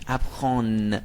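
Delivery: "اپخان" as if with a cold, ending in nasal "on"; French nasal "ap-khon" for "اپخان", final n not fully sounded; nasal, blocked-nose vowel. Shown as a demonstration. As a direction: say "اپخان" through the nose, as if pinching it. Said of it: "بینیتون رو بگیرید بگید".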